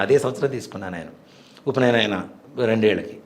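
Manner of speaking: normal talking voice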